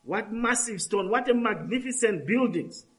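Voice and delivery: mock-awed tourist gasp at the temple; awed exclaim. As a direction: retell the disciples' wonder, a touch amazed. Disciples marvel at temple.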